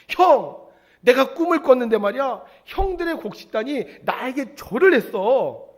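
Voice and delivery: high, loud, excited younger brother; thrilled boasting. Retold or imitated. Joseph tells his brothers his dream, thrilled boasting. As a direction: blurt it out, bursting to tell. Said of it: "요셉이 너무 신이 나서요".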